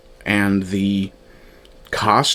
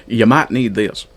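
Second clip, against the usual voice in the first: put-on Southern American accent. Reviewer quoting the Mandalorian in a Southern American accent. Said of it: "I'm caricaturing it".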